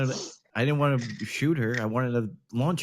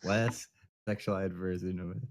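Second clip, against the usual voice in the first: muttered echo; 6 semitones lower, 9 dB quieter than usual. Acted. Mocking the request.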